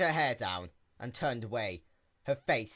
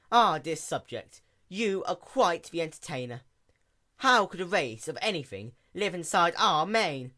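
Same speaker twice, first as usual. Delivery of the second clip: lofty princess, louder and higher, amused; amused royal Luna; 6 semitones higher, 5 dB louder than usual. A narrator's reading. Princess scoffs at the sea pony's claim in an amused royal voice. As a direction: humour the silly subject regally.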